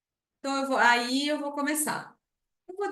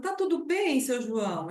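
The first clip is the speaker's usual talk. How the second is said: reassuring. Shown as a demonstration. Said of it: "Aí você vai conversando".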